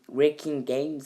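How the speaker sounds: show-off English accent on a French speaker's tongue. Shown as a demonstration. Host naming the series for viewers, English accent. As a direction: say it in a proudly overdone English accent. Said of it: "avec mon accent anglais super stylé".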